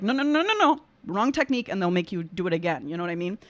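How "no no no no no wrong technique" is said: imitating a teacher's raised, scolding no; mock-correcting a student, pitched up; strict opera teacher. Voice coach imitating an opera teacher scolding. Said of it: "they'll be like".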